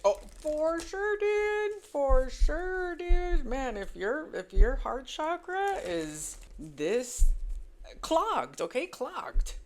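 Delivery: high, loud "for sure, dude", drawn out; emphatic outburst. Real, not acted. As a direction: cry it out with full conviction. Emphatic outburst about his heart.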